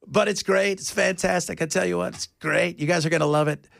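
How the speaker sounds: lightly mimicked politician's patter; a hint of an impressionist selling it; Donald Trump. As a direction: mildly imitate a boastful presidential voice. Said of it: "he sounds like this".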